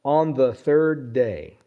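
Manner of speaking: "On the third day" read slowly; slow emphasis. Shown as a demonstration. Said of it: "Now, underline this".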